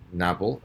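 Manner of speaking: novel said clearly as NOV-el, stress on the first syllable; model word for repeating. Shown as a demonstration. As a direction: say novel slowly for students to repeat. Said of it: "I will repeat".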